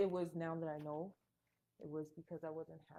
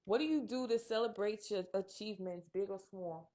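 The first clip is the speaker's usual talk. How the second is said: put-on louder, punchy New York accent; 3 semitones higher, 5 dB louder than usual. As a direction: read it like a New Yorker. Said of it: "we gotta all do our New York accent".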